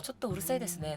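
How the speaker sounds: quiet Japanese remark. Retold or imitated. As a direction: let it slip quietly in Japanese. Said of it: "조용한 목소리로". (일본어로 아주 조용히)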